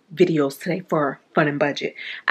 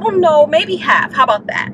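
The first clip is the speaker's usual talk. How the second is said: high retold protest; 9 semitones higher than usual. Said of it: "And I said".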